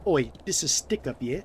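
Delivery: loud mock British stick-up; cockney robber demand in a British accent. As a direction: bark it like a London mugger. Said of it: "What would the U K equivalent be?".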